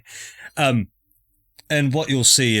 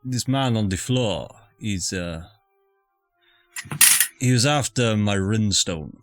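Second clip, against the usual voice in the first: put-on Scottish accent. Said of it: "I picked up this accent".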